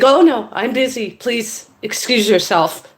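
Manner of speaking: high protest slowing to firm request; decent but fed up. Retold or imitated. Woman asking intruder to leave, politely exasperated. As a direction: refuse firmly, keeping some politeness. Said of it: "I was being decently nice to start with".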